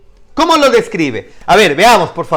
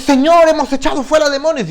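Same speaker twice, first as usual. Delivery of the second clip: higher, mock-proud preacher protesting; mocking a preacher who boasts before the Lord; boasting false preacher; 11 semitones higher, 4 dB louder than usual. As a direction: parody a smug preacher listing his works.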